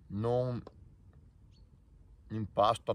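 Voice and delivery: talking through fingers; fingers over lips. Real, not acted. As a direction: hand partly covering mouth. Seen 2: Fingers rest against lips while speaking; hand drops by 3.0.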